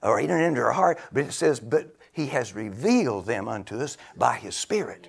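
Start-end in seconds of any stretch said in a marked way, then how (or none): 1.6-5.1 whispered scripture, soft. Acted. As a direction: hush it like a secret. Hushed scripture.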